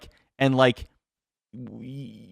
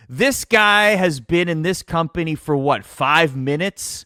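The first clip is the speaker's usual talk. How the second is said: big, loud, higher indignant boss voice; mock outraged boss; 6 semitones higher, 4 dB louder, slower than usual. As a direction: ham up a scornful veteran announcer. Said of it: "turns to the writer and goes".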